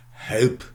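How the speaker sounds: "hope" with the oh diphthong, one syllable; modern hope. Shown as a demonstration. A lecturer gives the result after the vowel shift. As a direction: say "hope" as a long oh.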